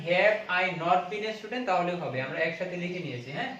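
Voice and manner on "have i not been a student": slow alternative form. Shown as a demonstration. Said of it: "যদি বলেন".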